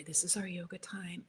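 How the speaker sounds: soft whispered invitation; hushed whisper. Shown as a demonstration. Parent whispering to kids to start yoga time, whispered. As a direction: whisper like a secret ritual. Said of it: "I'd make a whole story".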